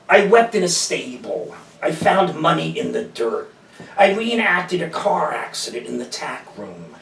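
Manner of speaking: measured recital of a list-like poem; poem read aloud in even, deliberate lines; poetry reading. Acted. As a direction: recite each line as verse, falling at the end. Reads second poem aloud.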